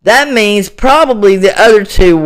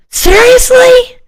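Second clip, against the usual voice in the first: much higher, pointed disbelief; exasperated seriously. Real, not acted. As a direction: throw it at them in disbelief.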